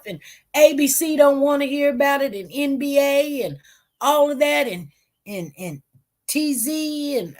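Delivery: lightly put-on Southern family voice; imitated Southern accent. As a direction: imitate exasperated Southern relatives. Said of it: "what they said in their Southern af-, accent".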